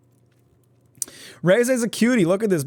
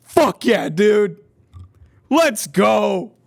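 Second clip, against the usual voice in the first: excited; 5 semitones higher, 6 dB louder, much slower than usual. Real, not acted. Celebrating the car.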